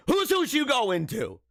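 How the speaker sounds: slow, high mock Canadian "whose hoose"; hammed-up Canadian accent question. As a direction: tease the Canadian vowel in "hoose". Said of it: "It's hoose".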